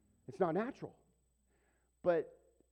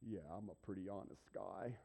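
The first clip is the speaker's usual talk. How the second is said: taking the glory; 7 semitones lower, 10 dB quieter than usual. Pretend. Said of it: "I could have taken the glory".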